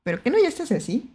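usual speaking voice

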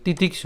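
"তিতিক্ষ" as one quick unbroken word; said together. Shown as a demonstration. Teacher reminding learners to join it, "তিতিক্ষ" unbroken. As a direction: keep all of "তিতিক্ষ" in one piece. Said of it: "একসাথে উচ্চারণ করতে".

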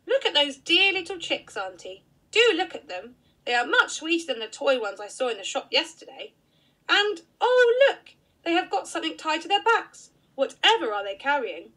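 put-on a thrilled small boy pointing things out; excited little boy.

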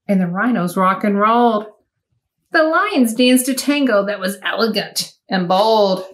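lively rhyming read-aloud; bouncy storybook narration; reading to children. A narrator's reading. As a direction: read it like storytime for little ones. Reads picture book to children.

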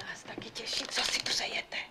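hushed polite whisper. Acted. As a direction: answer in a whisper. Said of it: "Tak proč vlastně šeptáme?".

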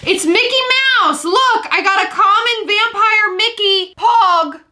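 mock thrill at the find; excited, showing the cohost his soda can find. Finding a vampire Mickey pog.

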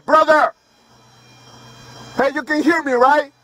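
calling out. Real, not acted. Yelling up at a pole worker.

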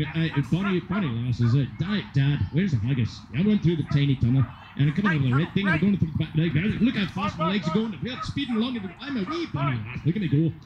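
playful put-on Scottish accent voicing the dog; dog's mock Scottish accent. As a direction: give the dog a jokey made-up Scottish accent. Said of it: "she's gonna make fun of my accent".

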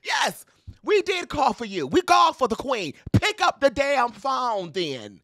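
loud, high, demanding; loud call-out. Real, not acted. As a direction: shout it up the phone. Calling out to a singer.

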